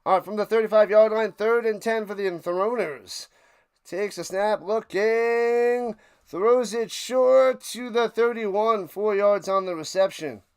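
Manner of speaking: football commentator's call; live play-by-play. Pretend. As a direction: stretch the words as the play unfolds. Calls the game play live.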